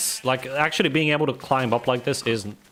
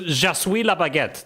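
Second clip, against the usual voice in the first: mock French; 3 semitones higher than usual. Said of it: "here's the proof".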